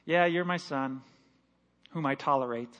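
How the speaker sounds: grudging father. Retold or imitated. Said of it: "we hear this other voice".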